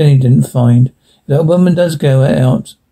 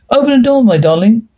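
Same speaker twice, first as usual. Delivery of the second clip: higher, coaxing husband's voice; quiet husband; 8 semitones higher than usual. A narrator's reading. Husband outside the locked door pleading, quiet and coaxing. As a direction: coax her gently to open up. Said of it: "he said very quietly".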